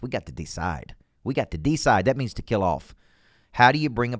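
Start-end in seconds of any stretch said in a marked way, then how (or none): 0.0-2.0 "decide" as a punchy DEE-cide; Southern pronunciation. Shown as a demonstration. Coach teaching the Southern way, "decide" said as DEE-cide. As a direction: hit a long DEE at the start of "decide". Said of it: "the way you say it in the South".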